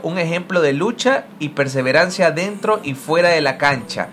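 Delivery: measured reading of a written tribute; tribute read aloud. Acted. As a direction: read out a fan's thank-you message. Reads Olympic account's post aloud.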